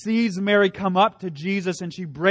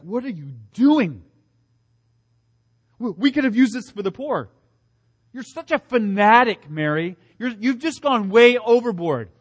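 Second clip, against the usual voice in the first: higher, louder mock rebuke; indignant scolding; 4 semitones higher, 4 dB louder than usual. Judas scolding Mary for wasting the oil, mock indignant. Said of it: "Judas in his mind says something like".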